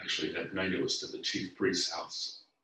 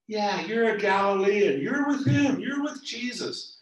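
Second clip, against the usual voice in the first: much higher, loud pointed accusation, slowing at the end; accusing bystander; 12 semitones higher, 9 dB louder than usual. Acted. A bystander calling Peter a Galilean, loud and accusing. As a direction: nail him down as one of them.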